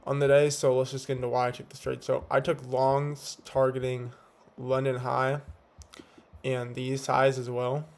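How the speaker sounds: slight lisp from whitening strips. Real, not acted. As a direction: talk with strips on your teeth. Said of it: "it sounds like I have a fucking lisp".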